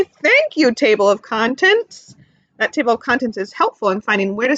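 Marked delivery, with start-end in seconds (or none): 0.0-2.2 say it with me. Shown as a demonstration.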